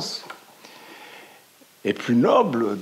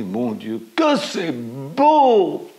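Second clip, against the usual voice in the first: high, drawn-out cry of wonder, louder; amazed exclamation; 5 semitones higher, 5 dB louder, much slower than usual. A narrator's reading. Girl gazing at the valley, exclaiming in wonder. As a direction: marvel at the valley out loud. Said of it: "elle s'écrie".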